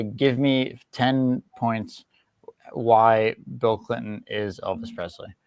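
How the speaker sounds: slow, deliberate dictation to the AI; dictating. Shown as a demonstration. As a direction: spell out the prompt slowly. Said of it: "just say".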